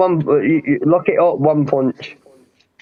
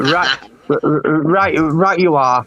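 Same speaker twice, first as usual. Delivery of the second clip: mock butler reply; much slower than usual. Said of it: "There you go, Daryl's butler".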